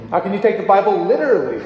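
quick, with "literally" hit hard and falling; stress on literally. Shown as a demonstration. A teacher showing the last emphasis, stress on literally. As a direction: land the weight on "literally". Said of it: "emphasize different things".

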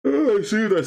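high and loud, squealing; excited high voice. Real, not acted. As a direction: squeal it out in delight. Reacting to yawning villager.

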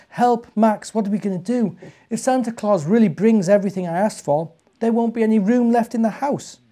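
put-on high, urgent child's cry for help; a boy scared his wish will come true; panicky child. A narrator's reading. Boy waking from a nightmare, calling to his toy mouse in high alarm. Tim panics after bad dream.

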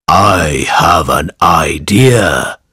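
low, slow wolf voice; lightly voiced sly wolf. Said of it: "said the wolf".

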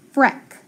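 "freck" stretched out, slow; blending sounds. Shown as a demonstration. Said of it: "So I have that F R".

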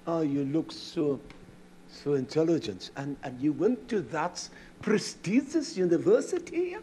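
butter him up with fake respect; lightly voiced sarcastic courtesy; mock politeness. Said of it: "I wanted to get up and say".

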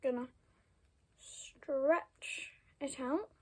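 slow soft whisper. Real, not acted. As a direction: whisper it out slowly. Whispered while working.

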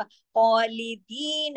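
slow खालिदीन, heavy kha then thin l; light laam. Shown as a demonstration. Teacher shows heavy beside light letters, खालिदीन recited slowly with light laam. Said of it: "जिसे बारीक पढ़ा जाएगा".

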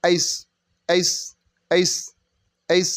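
"এইচ" in its correct English form; real sound. Shown as a demonstration. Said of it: "real sound will be". (সঠিক উচ্চারণে "এইচ")

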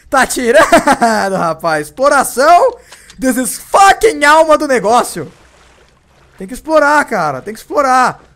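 high, loud gleeful yelling; excited shouting. Real, not acted. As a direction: cheer the loot at full volume. Celebrating the find. (gritando animado, agudo e alto)

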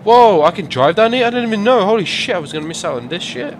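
very high, loud excited outburst; excited discovery. Real, not acted. Gamer discovering a hidden route down, excited outburst. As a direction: burst out in loud, high amazement. Discovers he can drive down ramps.

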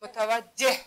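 متوجه with an audible breath of h at the end; careful متوجه, ending on a clear h; final h pronounced. Shown as a demonstration. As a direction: sound the closing ه in متوجه.

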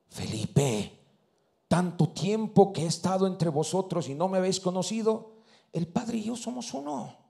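low, soft and solemn, as Jesus answering; hushed voice of Jesus. Retold or imitated. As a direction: drop low and speak it gently. Jesús responde a Felipe. (voz baja y solemne de Jesús)

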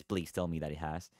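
a soft, weary plea; pleading. Real, not acted. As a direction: beg quietly that the time is up. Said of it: "has it been five minutes".

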